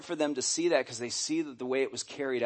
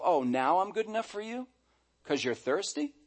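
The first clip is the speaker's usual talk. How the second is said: sarcastic retort; 4 semitones higher than usual. Retold or imitated. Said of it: "She's thinking to herself".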